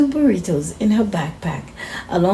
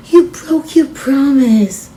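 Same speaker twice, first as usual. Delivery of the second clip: louder, higher accusation; reproachful; 6 semitones higher, 6 dB louder than usual. Acted. Friend accusing Sophia of breaking her promise, reproachful. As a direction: hold her to her word.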